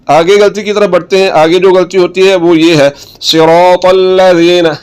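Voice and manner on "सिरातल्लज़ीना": slow सिरातल्लज़ीना with 'th' as in 'this' in ज़ीना; soft zaal. Shown as a demonstration. Teacher modelling the letter, soft zaal. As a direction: draw out सिरातल्लज़ीना, no whistle on the zaal. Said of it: "ये ज़ाल है".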